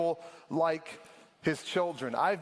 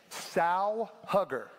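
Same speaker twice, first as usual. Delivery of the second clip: slow, deliberate "Sow hugger"; slow, spelled-out word; much slower than usual. Shown as a demonstration. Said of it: "Sow, like a pig".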